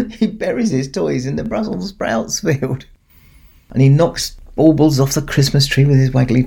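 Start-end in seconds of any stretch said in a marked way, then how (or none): 0.1-2.8 said through laughter, softer; laughing fondly at the puppy's mischief. Real, not acted. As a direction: giggle through He buries his toys. Repeats line while laughing.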